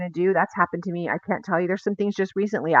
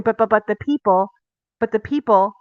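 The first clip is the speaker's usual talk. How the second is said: mock excuses; 2 semitones higher, 5 dB louder than usual. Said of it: "Aaron says this".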